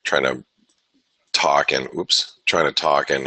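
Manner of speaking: talking between sips of coffee; words around a mouthful of coffee; while sipping coffee. Real, not acted. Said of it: "drink coffee at the same time".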